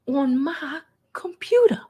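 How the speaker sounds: breathy whispered aside. Real, not acted. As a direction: drop to a whisper. Aside about kid.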